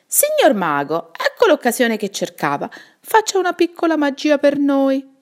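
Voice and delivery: put-on girl eagerly begging the wizard; excited exclaiming. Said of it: "balzò in piedi eccitata ed esclamò".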